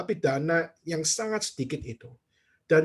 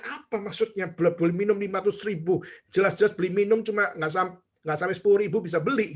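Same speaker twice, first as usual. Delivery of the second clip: higher-pitched, puzzled protest; mock indignation; 3 semitones higher than usual. Preacher retelling his reaction to the money remark, indignant. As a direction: act out being mildly affronted.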